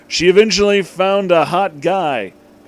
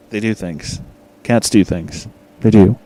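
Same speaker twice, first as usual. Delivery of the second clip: lower, louder, right up on the mic; close to the mic; 6 semitones lower, 5 dB louder than usual. Shown as a demonstration. Reader leans into the mic for an intimate cat line. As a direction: lean into the mic, low and intimate. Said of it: "I'm getting really close to the mic right now".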